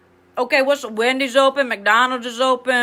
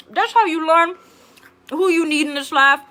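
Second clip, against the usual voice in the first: ordinary talk, nothing marked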